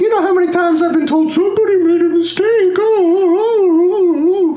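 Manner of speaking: very high, fast, laughing jailer; laughing guard. Acted. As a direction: cackle through the words.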